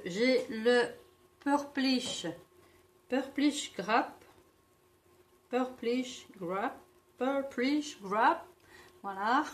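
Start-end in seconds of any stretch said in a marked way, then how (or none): 1.4-8.4 Purplish Grape read slowly with a heavy French accent, stumbling over it; English shade name said with a French accent. Real, not acted. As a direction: Purplish Grape pronounced carefully and hesitantly, the French way. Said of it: "Excusez-moi pour l'accent". (dire Purplish Grape lentement avec un fort accent français)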